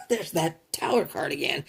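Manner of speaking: breathy whispered aside to herself. Real, not acted. Reader whispering to herself on seeing the Tower card again. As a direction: hush it out, half laughing at the card.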